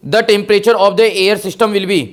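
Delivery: slow, deliberate read; slow question reading. Shown as a demonstration. Teacher slowly reads a question stem to students. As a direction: lay out each word of the stem.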